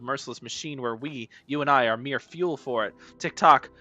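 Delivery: theatrical zealot building to a loud war cry; ranting clock character. Acted. Clock character urging player to war, fervent rant. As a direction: declaim it, rising to a rallying cry.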